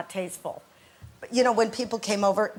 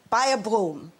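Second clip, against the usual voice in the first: eccentric mother. Retold or imitated. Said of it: "she came to England and she said".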